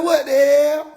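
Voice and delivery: what is this noise; baffled reaction. Retold or imitated. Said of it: "I'm like".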